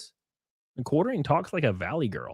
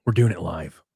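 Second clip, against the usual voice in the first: mock meme quote; 8 semitones lower than usual. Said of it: "Bill O'Reilly meme".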